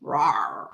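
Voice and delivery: low pretend growl of an annoyed cat; mock cat growl. Reader showing her cat when pissed off, mock growl. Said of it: "when I'm pissed off".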